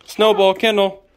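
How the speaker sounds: loud, clipped dog command; firm command. Real, not acted. Owner ordering the dog into her kennel, firm loud command.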